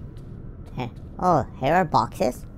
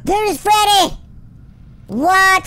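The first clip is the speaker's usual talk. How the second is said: surprised; 12 semitones higher, 5 dB louder than usual. Real, not acted. Spots Freddy suddenly.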